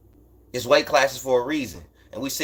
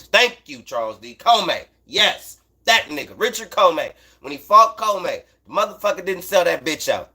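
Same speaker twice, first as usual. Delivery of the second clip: sudden burst of excitement, pitch up; finally remembering the name, loud and high; excited; 5 semitones higher, 4 dB louder than usual. Real, not acted. Viewer supplies forgotten name.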